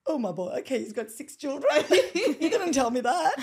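loud, laughing mock dismay; laughing disbelief. Friend retelling her mix-up about his six children, laughing disbelief. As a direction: crack up while acting out the shock. Retelling a funny mistaken assumption.

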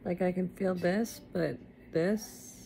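talking with a numb mouth. Real, not acted. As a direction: numb lips after jaw surgery. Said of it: "it's hard to talk 'cause I'm numb still".

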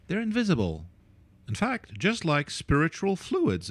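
a voice that cracks high mid-sentence; voice cracking. Real, not acted. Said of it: "I just did an impression of that".

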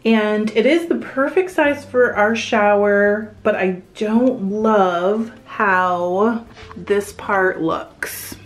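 echoey bathroom sound; tiled room reverb. Real, not acted. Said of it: "you know I'm in a bathroom".

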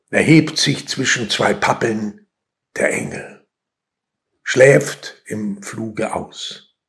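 measured poem reading with weighty pauses; solemnly paced verse reading; poetry recitation. Acted. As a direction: recite line by line, letting each land.

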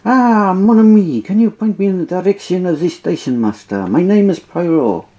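put-on hammy French-accented detective; light French detective accent; mock French accent. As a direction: roll out the French charm. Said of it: "the great French detective".

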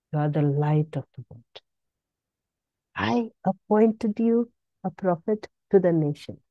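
low, soft, loving words of healing; softly voiced Jesus reassuring the faithful; Jesus' tender voice. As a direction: speak as Jesus comforting a child. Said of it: "Jesus said".

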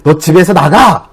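retold parental outburst, drawn out; mock order to get out, mildly heated; angry scolding. Dad retelling how he scolded his young daughter, mildly angry. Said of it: "너무 화가 난 적이 있어서 그 아이를 막 다그치다가".

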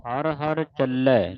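ਚੱਲੈ with a doubled, held L; ਚੱਲੈ ਕੱਸ ਕੇ; ਚੱਲੈ said tight. Shown as a demonstration. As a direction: stress the double L of ਚੱਲੈ firmly. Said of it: "ਚੱਲੈ ਪਾਠ ਕੱਸ ਕੇ ਬੋਲਣਾ ਹੈ".

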